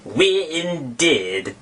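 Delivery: very slow, drawn-out indignant cry; scoff, trembling with offense; indignant mouse. Acted. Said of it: "cried the mouse".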